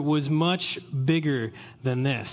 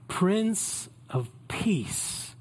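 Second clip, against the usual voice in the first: slow reverent; 2 semitones higher, 3 dB quieter, much slower than usual. Shown as a demonstration.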